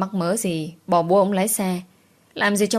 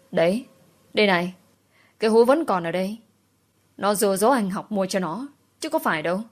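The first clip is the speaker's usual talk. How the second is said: mild scolding shout. Acted. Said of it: "chỉ vào hộp bánh trên tay tôi quát lên".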